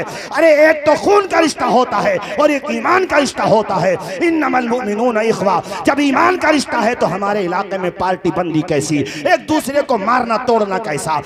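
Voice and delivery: high, loud preaching at full force; fiery preaching. Acted. Fervent preaching to crowd. (पूरे जोश में ऊँची आवाज़ में वाज़)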